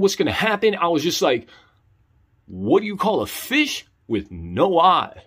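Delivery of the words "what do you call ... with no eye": slow, careful riddle delivery; tentative joke setup. Retold or imitated. Nervous novice telling his only joke onstage, tentative. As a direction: ease the joke out slowly.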